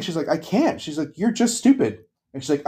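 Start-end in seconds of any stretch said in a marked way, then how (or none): 0.3-0.8 high-pitched mock-crying voice; imitated tearful protest. Crying young employee refusing to go on, imitated tearful whine. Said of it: "she was, like, crying". 1.2-2.0 very high mock-crying whine; imitated tearful insult. Crying young employee to her boss, imitated tearful exasperation. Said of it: "she was, like, crying".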